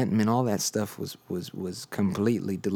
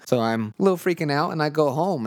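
much higher and louder, buzzing with it; a little freaked out; 8 semitones higher, 4 dB louder than usual. Real, not acted. Recalling rushing home after the prophecy, excited and higher. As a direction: let the excitement lift the voice.

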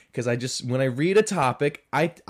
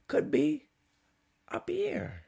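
high squeak; 13 semitones higher, 4 dB quieter than usual. Shown as a demonstration. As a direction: voice lifted far up high. Showing how high sales could be.

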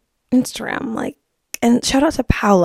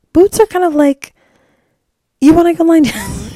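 louder, higher, breaking into a laugh; 7 semitones higher, 6 dB louder than usual. Real, not acted. Host making her point to listeners, laughing. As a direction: crack up midway through the phrase.

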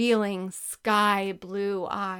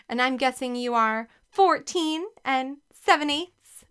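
higher, louder flirty tone with a hint of giggle; giggly flirt; 4 semitones higher, 4 dB louder than usual. A narrator's reading. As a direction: flirt at the cute tutor. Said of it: "with a little giggle".

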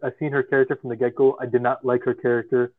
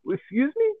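mock indignant surprise; 14 semitones higher, 4 dB quieter, slower than usual. Mock outrage at a character's line.

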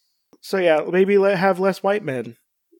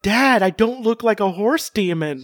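high-pitched mock outrage, breaking into laughter; imitated indignant yelling; 7 semitones higher than usual. Thor protesting to his dad Odin, mock yelling. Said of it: "just him, like, yelling at".

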